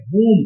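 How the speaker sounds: whom as "hoom", starting on an h; h pronunciation. Shown as a demonstration. Teacher shows students that whom takes an h sound, h pronunciation. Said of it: "वो एच निकलेगा".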